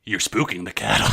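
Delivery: gruff, tough cowboy voice; Jack Palance. Retold or imitated. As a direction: growl it like a tough old-West cowboy. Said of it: "tough voice".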